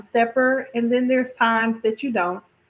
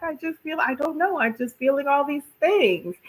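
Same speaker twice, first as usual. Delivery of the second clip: overwhelmed, near tears; 6 semitones higher than usual. Retold or imitated. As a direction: mimic her fumbling through emotion. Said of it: "she's like".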